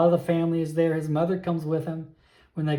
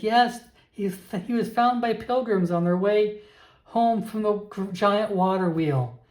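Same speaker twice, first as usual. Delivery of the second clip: lightly voiced aunt, higher pitch; a hint of an upset aunt, pitched up; distraught aunt; 5 semitones higher than usual. Aunt explains how he was found, mildly distraught. Plays the aunt answering Alaric.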